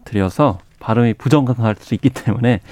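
talking through a face mask; muffled by mask. Real, not acted. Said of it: "마스크를 좀 쓰고 말씀을 드려서 발음이 부정할". (마스크 쓰고 말하는 목소리)

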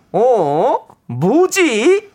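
drawn-out puzzled catchphrase; catchphrase impression. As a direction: stretch it out, high and puzzled. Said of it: "코빅 남창희 씨의".

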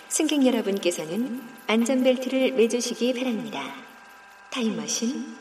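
polite cabin announcement voice; smooth in-flight announcer; flight attendant. Acted. Time machine boarding announcement.

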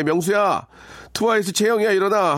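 높은 톤으로 가볍게 깨우는 흉내; pretend wake-up call. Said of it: "아침에 깨울 때". (아들을 깨우는 엄마처럼 살짝 높여 부르기)

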